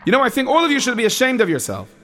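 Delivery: scolding. Acted. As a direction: let them know you're disappointed. Counselor scolds the bunk.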